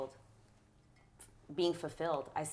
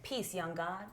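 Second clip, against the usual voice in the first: encouraging parent; 8 dB louder than usual. Retold or imitated. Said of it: "I'm speaking to".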